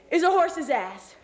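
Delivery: slow, drawn-out punchline, lightly announced; head clown announcing. Acted. Clown mocks Kenny before the crowd, announcing slowly. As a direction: deliver the reveal like a circus clown. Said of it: "the clown says".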